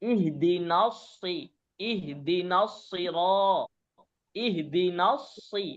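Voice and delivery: ইহদিনাস drawn out slowly, সি held long; slow Quran recitation demo. Shown as a demonstration. Teacher slowly recites ইহদিনাস for the student. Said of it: "সূরা ফাতিহা পড়েন না?".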